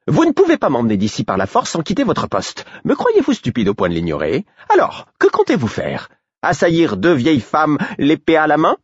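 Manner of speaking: aiguë, railleuse; moqueuse hautaine. Acted. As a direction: narguer le garde. Patience taunts guard. (vieille dame qui nargue)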